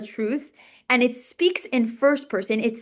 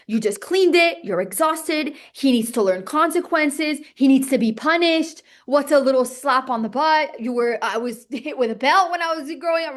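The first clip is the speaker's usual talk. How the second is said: tempting inner voice; 3 semitones higher, 3 dB louder than usual. Retold or imitated. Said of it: "a voice in her head says".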